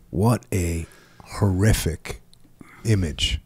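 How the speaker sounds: hushed whisper of horror; awed whisper. Real, not acted. Reacting to a grim battle quote, an awed whisper. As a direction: breathe it out, stunned by the image.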